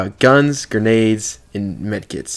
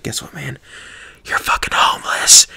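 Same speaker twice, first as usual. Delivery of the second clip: retold whisper; 3 semitones higher than usual. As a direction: drop into a hushed, taunting whisper. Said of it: "I whispered in his ear".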